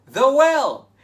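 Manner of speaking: high, loud eager answer; excited exclamation. Acted. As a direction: shout out the answer gleefully. Answering own question to kids.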